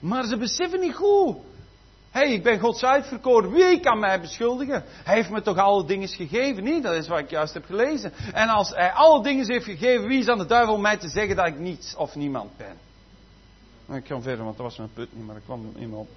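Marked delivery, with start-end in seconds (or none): 2.1-12.8 louder, proud and certain; bold declaration. Retold or imitated. Preacher voicing a believer who knows he is chosen, bold and proud. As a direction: announce it like a chosen one.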